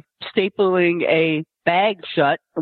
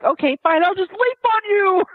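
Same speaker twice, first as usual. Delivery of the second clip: voicing the dog; 12 semitones higher than usual. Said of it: "She's like".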